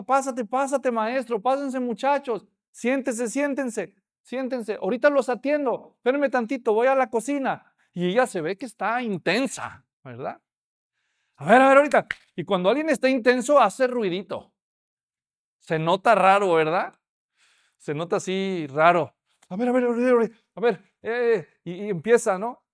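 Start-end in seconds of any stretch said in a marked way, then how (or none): 0.0-7.7 hurried hostess. Acted. Marta voiced as a hurried host. 11.4-12.1 loud, rushed and flustered; a frazzled woman juggling guests, loud and hurried; flustered busy host. Acted. Marta flustered, busy in the kitchen. 19.5-21.5 flustered muttering. Acted. Marta muttering, overwhelmed.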